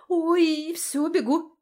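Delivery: startled oh, late and leaving; sudden realisation. A narrator's reading. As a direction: remember with a start and rush off. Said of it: "спохватилась я".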